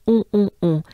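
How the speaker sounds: "On" mock-exaggerated, very nasal. Shown as a demonstration. Teacher urging learners to exaggerate the nasal sound. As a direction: overdo the nasal "On" for fun. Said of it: "Just exaggerate, just make fun of it".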